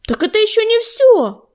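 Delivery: high-pitched, eager exclamation; crying out. A narrator's reading. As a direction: call out in protest, pitch jumping up. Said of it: "крикнул Горелый".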